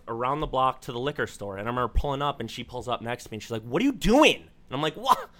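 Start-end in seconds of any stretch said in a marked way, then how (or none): 3.6-4.4 mock yell. Date yelling from next car. 5.0-5.3 high, sarcastic squeak; mock innocence, pitched way up; mock high retort. Teasing his date at the liquor store, high sarcastic squeak.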